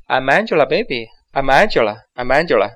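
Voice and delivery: natural, quick linked; real speed. Shown as a demonstration. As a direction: say it like real talk. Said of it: "真正说话的时候". (正常语速连读)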